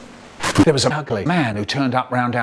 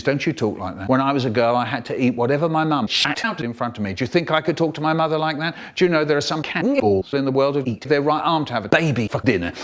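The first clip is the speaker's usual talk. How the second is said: mum's rant; faster than usual. Retold or imitated. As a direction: rattle off a scolding mother's tirade. Mum lecturing her son, voiced.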